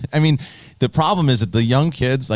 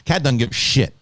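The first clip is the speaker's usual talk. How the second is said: normal talking voice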